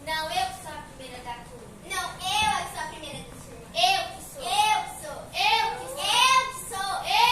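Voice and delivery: put-on rising childish bickering. Pupils quarrelling.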